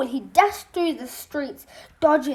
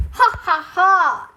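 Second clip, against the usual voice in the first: higher, lightly acted chuckle; chuckling old man; 5 semitones higher, 4 dB louder, slower than usual. Great uncle chuckling at the boy's password. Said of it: "chuckled Sid".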